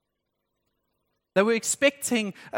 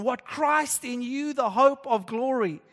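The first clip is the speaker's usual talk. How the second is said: amazed; 3 semitones higher, slower than usual. Retold or imitated. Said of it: "it would have blown their minds".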